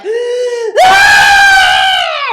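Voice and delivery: put-on very high, very loud gasping shriek of a toddler; imitated child scream. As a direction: shriek like a kid in a meltdown. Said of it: "my little guy's like".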